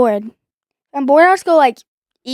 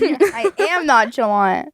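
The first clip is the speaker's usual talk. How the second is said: put-on nonchalance; slower than usual. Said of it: "trying to be nonchalant".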